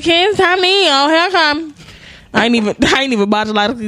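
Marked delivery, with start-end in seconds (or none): 0.0-1.7 high sing-song mom call. Retold or imitated. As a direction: call the kids like a mother. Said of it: "playing Rubica".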